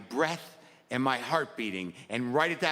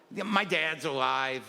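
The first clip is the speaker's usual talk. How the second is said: slow, grim-sounding statement; wrong grim tone; slower than usual. Shown as a demonstration. Comic to the crowd, grimly slow delivery. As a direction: say it like bad news, slowly. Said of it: "Uh, wrong tone?".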